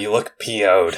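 polite fix to "you look P O'd"; self-censored. Acted. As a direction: spell out P O'd primly. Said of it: "oh, s-, sorry".

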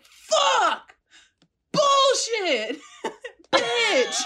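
high, loud bursts of swearing; mock screaming. Gym-goer cursing on every arm curl, mock screaming. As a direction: scream each curse separately, breaking into laughs.

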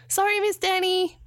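put-on high, slow child's call; child calling back. A narrator's reading. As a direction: call back like a cheeky kid. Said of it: "called back".

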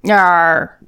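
drawn-out pirate "yar"; hammed-up pirate; pirate accent. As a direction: growl out a mock pirate accent. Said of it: "if you do a pirate accent".

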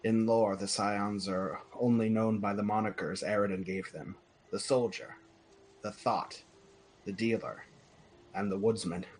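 measured game master's book reading; reading lore aloud. Acted. Game master reading the glowing paragraph to players, storybook narration. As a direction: read out an old holy text, slightly lifted.

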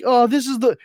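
high, loud mock Homer; a light Homer impression.

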